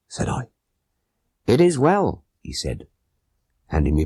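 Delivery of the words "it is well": higher, urgent conspirator voice; pitched-up voice of a tense plotter; Abdullah Khan voice. A narrator's reading.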